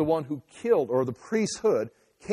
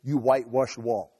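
slow, measured pronouncement falling low at the end; deliberate verdict, dropping in pitch; matter-of-fact statement; 3 semitones lower than usual. Acted. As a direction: state it as fact, not as an outburst. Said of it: "He's making a statement".

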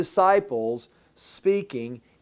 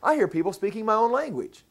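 mock surprise; 4 semitones higher than usual. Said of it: "if they all came together and go".

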